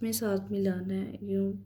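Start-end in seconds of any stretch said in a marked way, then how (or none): 1.2-1.5 quick run-together; fast blending. Shown as a demonstration. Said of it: "आहिस्ता से नहीं मिलाना". (तेज़ी से मिलाकर)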